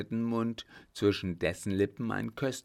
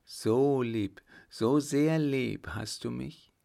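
higher, moved questioning lover; vibrating voice; 4 semitones higher, 3 dB louder, slower than usual. A narrator's reading. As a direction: ask with a voice trembling with emotion. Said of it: "fragte mit vibrierender Stimme". (mit vibrierender Stimme, höher)

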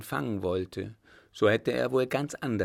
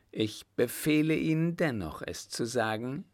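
higher-pitched imperial order; commanding; 4 semitones higher than usual. Acted. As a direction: insist on an answer, starting high. Emperor orders reluctant coachman to speak. (befehlend, mit gehobener Stimme)

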